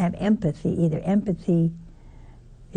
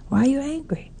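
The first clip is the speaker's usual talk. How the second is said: whisper; 5 semitones higher than usual. Acted. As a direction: hush it like a secret question. Asks the angry widow.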